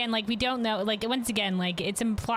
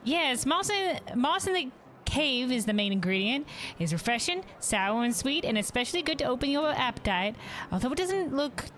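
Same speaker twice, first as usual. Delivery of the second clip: lightly voiced cheerful hostess, a bit higher; innkeeper voice; 3 semitones higher than usual. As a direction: greet the guest like a caring innkeeper. Innkeeper describing dishes.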